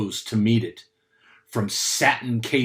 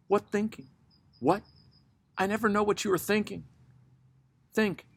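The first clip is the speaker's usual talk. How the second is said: high, anxious pleading voice; a restless woman begging to be answered; nervous woman; 6 semitones higher, 4 dB quieter than usual. Acted.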